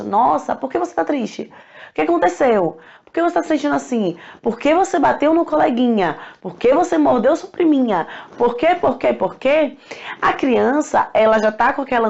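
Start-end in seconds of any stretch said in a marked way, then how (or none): 0.0-9.8 put-on parent questioning child. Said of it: "você encosta".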